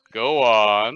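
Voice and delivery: loud, pushy go on. Retold or imitated. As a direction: bark it out. Boss urges him on.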